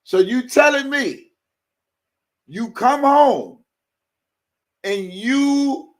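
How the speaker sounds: very high, loud and slow disbelief; can't believe what he's hearing; incredulous outburst. Real, not acted. Host challenging viewers, loud and incredulous.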